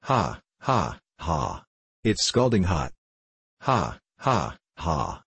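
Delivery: mild, spoken-out laugh; roaring laughter. A narrator's reading. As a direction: read the ha-ha-ha as an understated hearty laugh. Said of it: "roared Toby".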